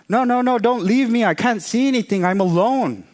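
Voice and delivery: high, loud, desperate begging; frightened high cry, easing slightly at the end; panicked pleading. Acted. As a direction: plead in panic at being left alone. Blind mouse begs wolf to stay.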